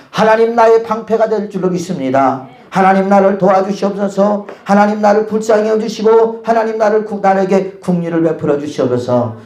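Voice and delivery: praying aloud in David's role, steady and insistent; earnest prayer. Acted. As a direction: voice an urgent, chant-like plea to God. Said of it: "다윗이 하나님 앞에 기도하며". (다윗처럼 간절히 부르짖는 기도)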